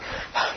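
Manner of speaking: spent, soft puff of breath; exhausted sigh. Acted. Preacher mimicking himself after straining in prayer, exhausted sigh. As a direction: let out a worn-out sigh. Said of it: "you're just exhausted".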